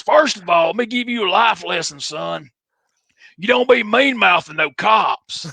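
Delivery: high strained voice dropping to a whisper; Tommy Rich voice. Retold or imitated. Veteran lectures the young wrestler about cops, strained high voice fading to a whisper. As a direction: lecture him in a strained rasp, then whisper the warning. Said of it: "It hurts my voice to do that".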